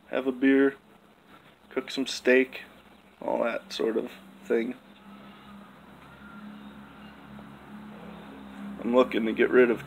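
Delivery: talking around pipe stem; pipe in mouth. Real, not acted. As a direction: lips clenched on pipe. Seen 1: pipe stem held in lips while talking from 1.4s.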